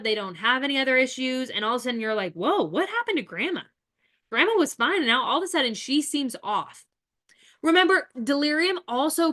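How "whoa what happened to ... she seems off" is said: startled relative. Retold or imitated. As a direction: act out the sudden worry.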